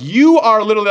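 mock angry retort.

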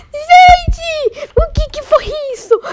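high, excited screams breaking into laughter; shrieking hilarity. Real, not acted. Streamer spotting the noisy gang running, laughing shriek. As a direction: squeal in amused disbelief.

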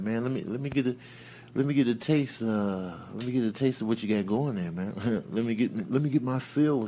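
low, soft wheedling; hushed pleading. Acted. Animal begs Sammy for a taste, hushed and wheedling. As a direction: beg under your breath, low and coaxing.

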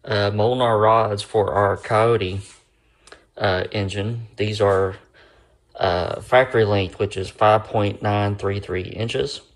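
slurring from a numb mouth; slurred speech. Real, not acted. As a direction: talk with half the mouth numb. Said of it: "if I sound like I'm slurring a little bit".

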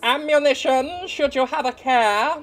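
stern pious witch hunter imitation; slow, drawn-out zealot rasp; cold pious accusing. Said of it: "I love the Witch Hunter's voice".

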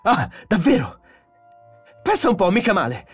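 high, mocking anger rising to a shout; furious, escalating tirade; sarcasm building to roaring. A narrator's reading. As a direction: start scornful, end bellowing. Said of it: "Ora stava ruggendo".

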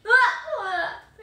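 startled yelp. Real, not acted. Reacting to bug emoji.

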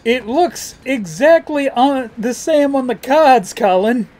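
Christopher Walken. Acted. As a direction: do a rough, emphatic film-star impression. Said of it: "not my best Christopher Walken impression".

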